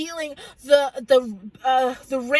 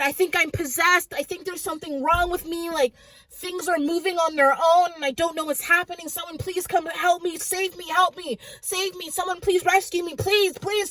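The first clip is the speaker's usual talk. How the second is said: pleading cry for help; 2 semitones higher than usual. Retold or imitated. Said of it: "someone said".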